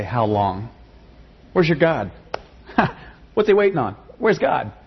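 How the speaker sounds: questioning God. Retold or imitated. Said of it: "It feels faithless to say".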